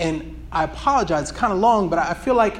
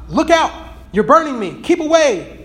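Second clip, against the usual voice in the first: higher, louder panicked yelps; alarmed cry; 7 semitones higher, 5 dB louder than usual. Acted. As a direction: recoil from the angel's heat. Ghost burned by the angel.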